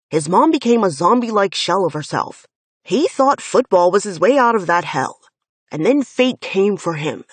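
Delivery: loud, heated protest for a friend; angry defense. Acted. Finn angrily defends Jace.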